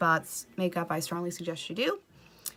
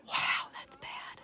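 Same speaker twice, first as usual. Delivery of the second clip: slow horrified whisper; stunned whisper; 6 dB quieter, much slower than usual. Acted. Looking at her eye in the mirror, slow stunned whisper. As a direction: whisper it slowly, aghast.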